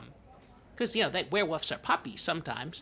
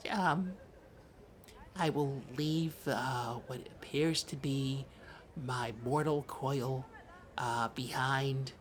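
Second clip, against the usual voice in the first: grave. Acted. Solemn werewolf transformation speech.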